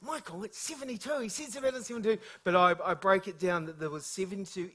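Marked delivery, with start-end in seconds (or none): 0.0-2.2 mock aside. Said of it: "Pastor Adams sitting next to Michael is going".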